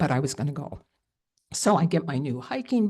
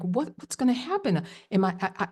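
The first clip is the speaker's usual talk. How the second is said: high, panicky rush of questions; recalling her panic at the river crossing, high and anxious; retold panic; 4 semitones higher than usual. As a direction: spiral into frightened questions. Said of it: "I have this fear".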